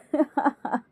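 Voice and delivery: brief acted chuckle; light laugh before brushing a remark off; short polite laugh. Mother-in-law among friends, laughing lightly. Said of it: "Tanuja हंसकर बोली".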